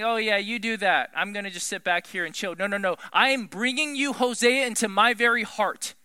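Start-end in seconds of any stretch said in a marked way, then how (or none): 0.0-2.5 apathetic. Pretend. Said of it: "apathetically saying".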